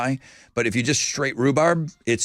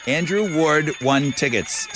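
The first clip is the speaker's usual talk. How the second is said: slow, careful tongue twister; each word spaced out carefully; slower than usual. Shown as a demonstration. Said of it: "Say that four times fast".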